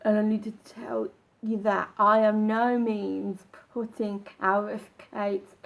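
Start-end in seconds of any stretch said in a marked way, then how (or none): 0.0-1.9 sharp gasp before each phrase; gasping between phrases. Shown as a demonstration. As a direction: grab a panicked breath, then rush the line. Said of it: "It's not".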